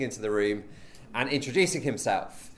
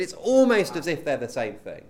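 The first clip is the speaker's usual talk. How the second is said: "almost" punched louder than the rest; stress on almost; 6 dB louder than usual. Real, not acted. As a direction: lean hard on the word "almost". Qualifies his claim by stressing almost.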